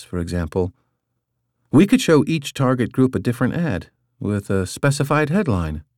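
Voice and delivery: a hint of a young woman explaining; Katya voiced. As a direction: read her as an eager young colleague, lightly. Katya's voice in audiobook.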